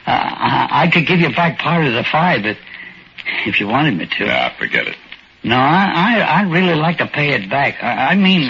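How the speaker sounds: put-on a shy old-timer, grateful and unsure; timid little old man.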